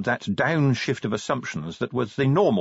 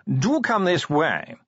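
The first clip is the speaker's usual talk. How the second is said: high, slow drawling toff; posh yawning voice; 6 semitones higher, slower than usual. Acted. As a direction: yawn the words out like a toff. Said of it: "modulated yawning".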